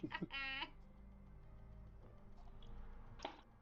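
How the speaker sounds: witch cackle. Retold or imitated. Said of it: "Sorry, I sounded like a witch there".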